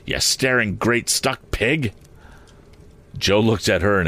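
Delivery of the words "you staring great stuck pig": scolding. Acted. Sister scolding Joe.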